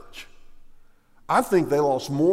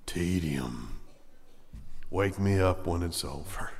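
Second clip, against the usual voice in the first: bored mock listener; 8 semitones lower, 6 dB quieter than usual. Churchgoer dreading another sermon, bored low mutter. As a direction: drone it softly, as if half asleep. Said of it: "another boring sermon. Tedium".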